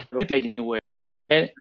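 choppy, breaking-up call audio; words dropping out over bad connection; laggy video call. Real, not acted. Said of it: "Your, your signal kinda cutting out".

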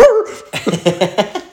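mock freaked-out growl; startled dog noise. Deaf dog jumping at its owner, startled noise. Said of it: "just freaked the fuck out".

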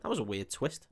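deadpan muttered verdict. Retold or imitated. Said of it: "He read Revelation and went".

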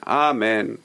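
amen said evenly, gently lengthened; measured amen. Shown as a demonstration. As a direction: give amen its full length. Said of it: "That's how a person should say amen".

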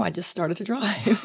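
laughing through the words. Real, not acted. Recalling driving too soon, laughing sheepishly. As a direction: giggle it out sheepishly.

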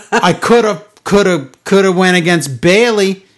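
slow, drawn-out mimicry of her promo voice; mocking imitation of a wrestler's halting speech; Charlotte impression. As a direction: stretch every word like a self-important promo. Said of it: "she's like".

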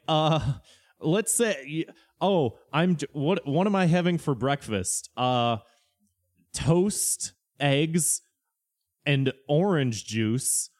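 slow, halting list read like a smug example; hint of a know-it-all reading aloud; mock pedant listing breakfast. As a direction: drag out toast, eggs, and orange juice with rising beats. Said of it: "people being like".

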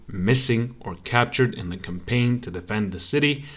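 steady read-aloud of a history passage; reading a text aloud. Acted. Streamer reading history to his viewers, steady read-aloud. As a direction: read it out like a documentary narrator.

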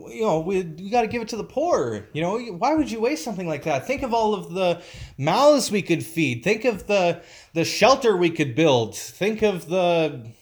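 lightly hammed-up do-gooder; mock self-righteous. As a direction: parody their fake concern for the poor. Mocking the critics' fake altruism.

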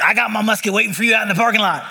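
fast, laughing mock tough-guy voice; mock gun-toting churchgoer. Pastor teasing his congregation with a laughing mock gun-nut voice. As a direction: poke fun at the musket crowd, laughing as you go. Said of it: "Some of you are like".

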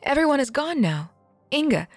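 high, pleading cry of despair; distressed plea. Acted. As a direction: beg her aunt to understand. Uma pleads, enemy at gates.

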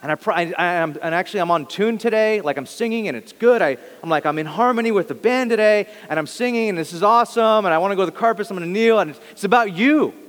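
lightly mock the worshipper who's really praising himself; self-absorbed worshipper. Pastor mocks a churchgoer singing to himself, hammed-up pride. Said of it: "We're like".

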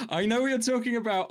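high put-on voice, a touch theatrical; mock knowing voice. Teasing a friend about a battleship joke, high mock voice. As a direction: play it as a sly, knowing in-joke.

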